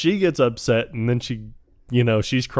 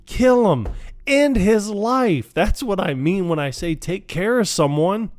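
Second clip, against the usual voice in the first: pitched-up hammed-up colonel; colonel quote; 9 semitones higher than usual. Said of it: "And he was like".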